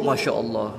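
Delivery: low, hushed pious exclamation; mock piety. Preacher voicing people impressed by fake piety, mock reverence. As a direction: imitate an admirer of showy devotion, softly. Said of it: "orang-orang khusyuk".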